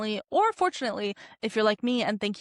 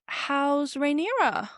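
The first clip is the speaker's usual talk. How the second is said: scheming; 4 semitones higher than usual. Retold or imitated. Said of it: "Otto, professional schemer, is like".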